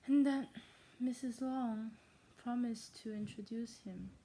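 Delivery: retake in a put-on German accent, emphatic start; fake German accent. Shown as a demonstration. Reader redoing a botched line, fake German accent. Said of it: "in my fake German accent".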